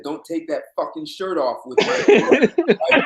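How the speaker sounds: slow, laughing mock warning; can't keep a straight face; laughing through a quote. Retold angry warning from friend.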